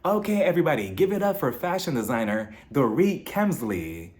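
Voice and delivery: lightly voiced stage announcer, drawn-up opening; event announcer. Emcee introduces fashion designer to the crowd, mock announcer voice. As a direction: imitate an emcee introducing a guest. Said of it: "we hear someone announce".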